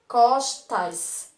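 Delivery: "Costas" loud, with the final S hissed; teacher shows the final S in "Costas"; strong final S. Shown as a demonstration. Teacher demonstrating a loud final S in "Costas". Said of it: "Veja que o som dele é mais forte".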